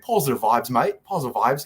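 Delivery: imitated Australian-British accent; lightly put-on Aussie-Brit encouragement; Mark Godbeer. Fighter mimicking an accented acquaintance cheering him on, light Australian-British accent. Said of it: "has the most beautiful Australian British accent".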